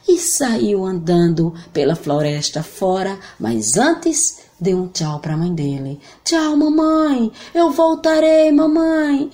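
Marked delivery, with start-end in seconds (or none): 6.2-9.3 voz aguda de menino, lenta; boy voice. Acted. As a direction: menino se despedindo. João se despede. (voz de menino)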